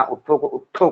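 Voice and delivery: उठो turned into उट्ठो; regional doubled consonant in उठो. Shown as a demonstration. Teacher contrasts regional forms, second उठो said as उट्ठो. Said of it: "अलग अलग जगह की अलग अलग भाषाएं".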